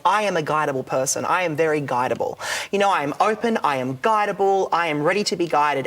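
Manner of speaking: calm self-affirmation; affirmation demo. Shown as a demonstration. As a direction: recite it like a mantra. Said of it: "begin the affirmation by saying".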